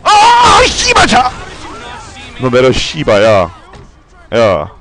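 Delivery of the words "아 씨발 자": high, sharp frustrated yell; frustrated shout. Real, not acted. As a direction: snap out in annoyance. Angry at traffic. (짜증 섞인 높은 외침)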